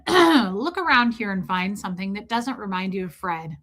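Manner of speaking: emotionless auditor giving a rote command; indifferent, by-the-book instruction; uncaring auditor. Acted. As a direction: issue the command without caring at all. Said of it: "the auditor doesn't give a holy shit".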